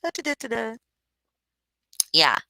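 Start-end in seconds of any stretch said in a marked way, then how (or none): 0.0-0.8 high, soft da da da da; lightly mock-bored humming while sitting at work; bored idle humming. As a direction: hum idly like you're zoning out at work. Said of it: "I just sit here and be like".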